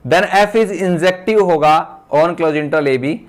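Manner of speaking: very slow, word by word, for note-taking; slow dictating teacher; slow dictation. Shown as a demonstration. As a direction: read it out slowly while students write. Dictating theorem for notes.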